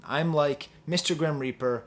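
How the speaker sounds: lyrics read low and hushed; reciting sad rap lyrics softly; quoting lyrics. Retold or imitated. Reading the rapper's lyrics to the camera, low and hushed. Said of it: "I say".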